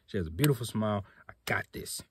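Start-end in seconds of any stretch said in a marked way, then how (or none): 1.3-2.0 whisper. Retold or imitated. Quietly psyching himself up.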